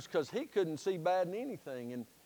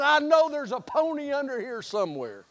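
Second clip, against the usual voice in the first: excited; 4 semitones higher than usual. Retold or imitated. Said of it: "he's so excited".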